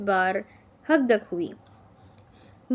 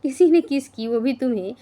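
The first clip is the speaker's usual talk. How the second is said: laughing, a touch louder; laughing disbelief; 3 semitones higher, 6 dB louder than usual. A narrator's reading. Friends mocking Talia's story, laughing. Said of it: "एक साथ कहकहा लगाया".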